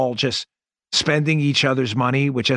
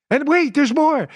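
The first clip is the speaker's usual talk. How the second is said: high, loud TV-salesman announcement; infomercial pitchman; 12 semitones higher, 3 dB louder than usual. Acted. Host mocks the bill like a late-night infomercial pitch. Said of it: "Sounds like an infomercial".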